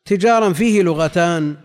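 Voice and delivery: تجارا with kasra on the taa and a light jim; tijaran, light jim. Shown as a demonstration. Teacher to students, reading تجارا with kasra on the taa and a light jim. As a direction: say تجارا as ti-jaa-ran with a single jim. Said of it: "كسر التاء وتخفيف الجيم".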